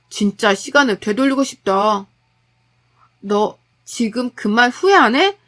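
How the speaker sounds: husband regrets the marriage, bitter and loud; angry husband. Acted. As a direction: cut her down with contempt. Husband attacks wife.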